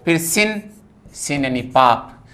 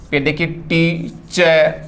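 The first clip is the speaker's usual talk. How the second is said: drawn out slowly; slower than usual. Shown as a demonstration.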